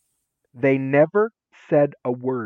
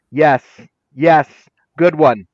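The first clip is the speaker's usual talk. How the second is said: excited praise; 10 dB louder, slower than usual. Retold or imitated. Teacher praising student.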